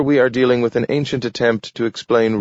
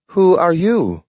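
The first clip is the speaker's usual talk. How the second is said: high, louder, eager question; a dog curious about the stranger; curious talking dog; 10 semitones higher, 4 dB louder than usual. A narrator's reading. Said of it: "asked Nathaniel".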